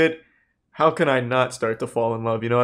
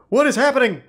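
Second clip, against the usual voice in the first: higher, louder disbelief; shocked; 9 semitones higher, 4 dB louder, faster than usual. Real, not acted. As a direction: react to something appalling. Shocked by explicit messages.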